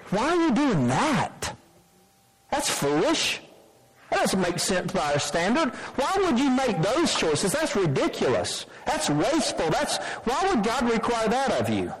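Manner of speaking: mock the world sneering at your offering; scoffing worldly critics. Preacher mimicking the world scoffing at sacrifice, disdainful. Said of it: "and go".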